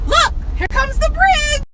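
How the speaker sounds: put-on coaxing a child. Distracting the whining girl, retold.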